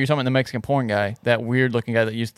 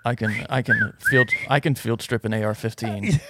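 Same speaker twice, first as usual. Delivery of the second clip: understated tough-guy boast; lightly voiced action man, matter-of-fact; John Wick; 3 semitones lower, 4 dB quieter than usual. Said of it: "that's like a John Wick style right there".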